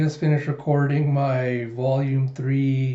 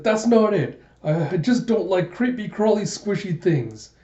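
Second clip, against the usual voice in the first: higher-pitched, mildly hammed-up defensiveness; flustered protest; 6 semitones higher than usual. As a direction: protest in a raised pitch, stumbling at the start. Gija defends himself after teasing.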